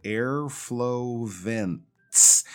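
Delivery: "airflow vents" stretched out, final TS released clearly; very slow model of "airflow vents"; slowed right down. Shown as a demonstration. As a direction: draw out "airflow vents" syllable by syllable. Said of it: "slow down a little bit there".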